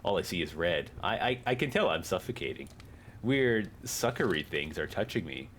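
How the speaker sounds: bad acting. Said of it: "We'll read it badly".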